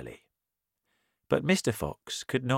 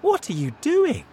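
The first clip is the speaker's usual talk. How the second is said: much higher, louder call; villagers shouting; 7 dB louder than usual. A narrator's reading. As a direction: shout down into the hole. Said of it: "they shouted".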